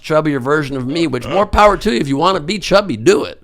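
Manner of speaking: excited. Real, not acted. Comic boast about body.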